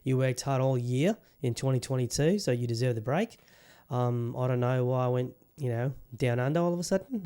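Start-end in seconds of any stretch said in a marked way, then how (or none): 3.9-7.2 put-on light New Zealand accent; Kiwi accent. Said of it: "I like to do a Kiwi accent from time to time".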